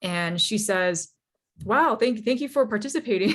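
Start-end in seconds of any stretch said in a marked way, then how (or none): 1.6-3.3 a slightly high, fast, awkward politeness; a touch of forced politeness, brushing you off; awkward thank-you. Retold or imitated. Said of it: "kinda awkward".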